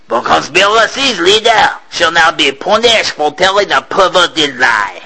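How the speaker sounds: smiling captain passing sentence; gloating captain. Acted. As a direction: savor the final words. Captain's public pronouncement.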